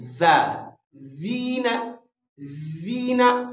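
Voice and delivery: "ज़ीना" with Arabic dhal, like th in "this"; demonstrated dhal. Shown as a demonstration. Teacher showing the letter, "ज़ीना" with voiced th. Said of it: "ज़ा को ऐसे पढ़ना है".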